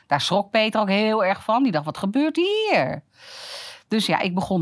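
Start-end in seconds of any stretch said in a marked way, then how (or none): 1.9-3.0 surprised. Retold or imitated. Peter's shocked reaction retold.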